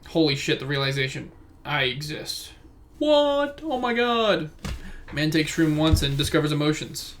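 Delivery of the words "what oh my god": high, startled what; mock shock. Reacting to his own realization, a high mock-startled outburst. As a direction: play up the shock.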